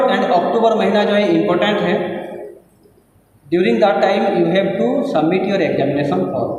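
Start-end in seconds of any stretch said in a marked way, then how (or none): 3.5-6.5 very slow, word by word for emphasis; deliberately slow teacher emphasis on the deadline; slow emphatic. Real, not acted. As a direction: spell it out slowly so it sinks in. Stressing key deadline to students.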